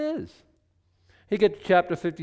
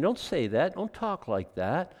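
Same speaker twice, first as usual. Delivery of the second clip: reassuring God. Retold or imitated. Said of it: "God said".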